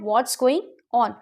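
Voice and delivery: slow demo with "What's" as one syllable; contracted What's. Shown as a demonstration. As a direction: slowly model "What's" with is merged in. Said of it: "contraction में हम इसे बोल सकते हैं". (धीरे बोलें, "What's" को एक साथ जोड़कर)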